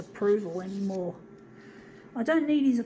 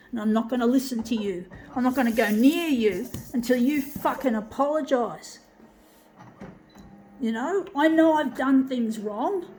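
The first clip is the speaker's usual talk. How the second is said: angry rant. Real, not acted. Yelling at his dad who never liked his art, furious. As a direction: let the anger spill out, swearing hard. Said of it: "but I'm angry".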